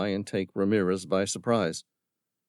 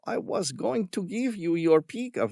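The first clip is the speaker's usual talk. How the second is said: mocking villain; 11 semitones higher than usual. A narrator's reading. Villain scorning Tom's concern for the creatures. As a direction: sneer at the tree hugger. Ramirez voiced.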